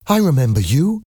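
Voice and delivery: high-pitched, swooping recognition; surprised. A narrator's reading. Young woman recognising Eponine, surprised. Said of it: "Cosette said in surprise".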